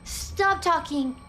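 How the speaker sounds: impatient shushing. Real, not acted. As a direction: cut them off with urgent shushing. Cuts off talking game character.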